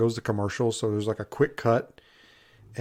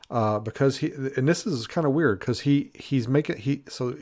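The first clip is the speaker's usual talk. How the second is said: halting, stuttering restarts; 2 semitones higher than usual. Real, not acted. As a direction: trip over the words, stuttering. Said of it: "I'm sorry, I'm stuttering".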